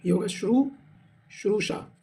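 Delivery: श्रुश्रूषा said slowly and carefully; drawn out. Shown as a demonstration. Teacher contrasting the spelling for the class, slow and careful. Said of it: "ये नहीं होगा".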